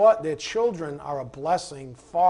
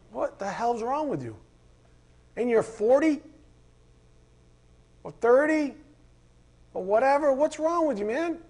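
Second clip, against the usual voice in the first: a fired-up rant, much higher and louder; heated rant; 6 semitones higher, 4 dB louder than usual. Real, not acted. Preacher rants at phone-obsessed parents ignoring their kids, a heated, high, loud rant. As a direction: let the outrage pour out at the neglectful parent. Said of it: "Okay, that's my rant".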